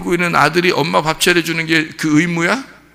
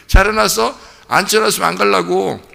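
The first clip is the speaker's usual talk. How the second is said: put-on higher, louder bratty kid; a spoiled child setting terms; child's voice; 4 semitones higher, 3 dB louder than usual. Child voiced demanding dinner first.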